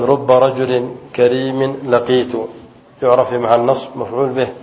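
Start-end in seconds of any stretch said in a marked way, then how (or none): 0.1-2.3 slow, deliberate reading of "رب رجل كريم لقيت"; teacher reads the example to the class, spelling it out slowly; slow example sentence. Shown as a demonstration. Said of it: "مثلًا".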